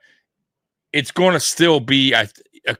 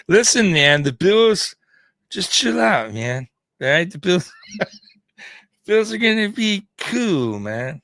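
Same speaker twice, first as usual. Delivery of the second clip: put-on laid-back California surfer accent, a bit higher; a hammed-up surfer dude telling fans to chill; 3 semitones higher than usual. Imagining Mike as a Californian, mild surfer dude accent. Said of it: "trying to sound like a surfer dude".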